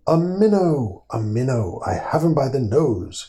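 eager high shout of a catch; excited cry. A narrator's reading. Frog narrator crying out over his catch, excited. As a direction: cry out with glee at the bite. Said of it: "cried Mister Jeremy Fisher".

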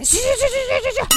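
shooing away. Acted. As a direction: wave them off with a pretend brush-off. Shooing away a creepy listener.

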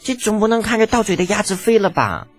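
put-on high-pitched boyish fretting; agitated young prince, high voice; anxious. A narrator's reading. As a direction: protest in worry, voice pushed up. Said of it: "李承前急了".

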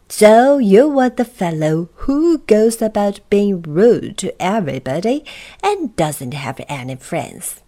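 a hint of a king confronting an offender; lightly voiced king. King addresses Mister Uppity.

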